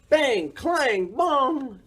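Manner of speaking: high, ringing spoken crash noises; crashing sounds. A narrator's reading. Morris crashing about the garage, ringing sound effects. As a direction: voice each clatter as its own impact.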